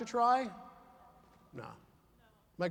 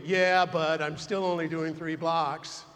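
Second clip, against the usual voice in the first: deflecting reply; 3 semitones lower, 3 dB louder, slower than usual. Retold or imitated. Deflecting a compliment.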